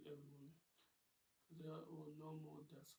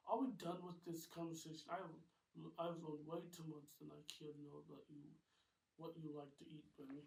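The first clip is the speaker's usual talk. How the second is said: annoyed; 7 dB louder than usual. Acted. Rose annoyed.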